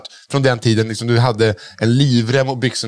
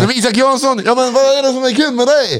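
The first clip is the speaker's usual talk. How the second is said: higher, needling comic question; Adde Malmberg impression; 10 semitones higher than usual. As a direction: tease the impersonator in character. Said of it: "Isak Jansson gör en jättebra imitation".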